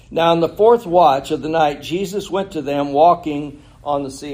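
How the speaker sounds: measured reading of the Bible passage; scripture reading. Acted. Pastor reads Matthew aloud to the congregation, measured scripture reading. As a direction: read the verses out to the congregation.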